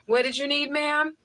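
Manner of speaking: high-pitched, solicitous store helper; eager helper. Acted. Grocery store man helping a charming customer, eager high voice. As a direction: voice an over-helpful man, pitched well up.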